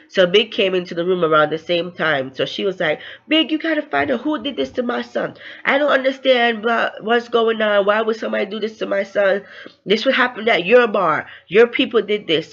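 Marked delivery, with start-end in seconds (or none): 3.3-12.5 high-pitched imitated upset mother; flipping out. Mother blaming Big for what happened to her son, flipping out. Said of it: "So she was flipping out".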